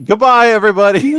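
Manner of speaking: put-on high, hammy Irish accent goodbye. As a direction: do Kyle's Irish farewell line. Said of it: "in the Irish accent?".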